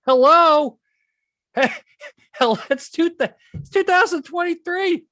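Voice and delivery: high, loud disbelief; amazed nobody caught on; incredulous hello. Real, not acted. Exasperated at CEO quote.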